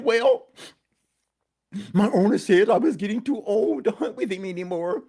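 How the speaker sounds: high whimpering dog voice; sad old dog. Acted. Old dog tells donkey he'll be gotten rid of, whimpering. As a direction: whine it like a sad old hound. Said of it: "sad and whimpering to himself".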